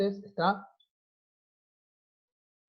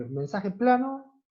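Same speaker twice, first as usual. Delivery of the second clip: slow dictation; 4 semitones higher, slower than usual. Shown as a demonstration. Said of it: "Por ejemplo".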